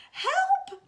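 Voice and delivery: high frantic cry for help; high, loud call for help. Acted. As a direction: yell for help, panicked. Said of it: "Missus Watson called again".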